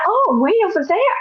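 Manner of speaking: high, wavering oh; tearful realization. Retold or imitated. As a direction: sob out the realization. Her own tearful answer.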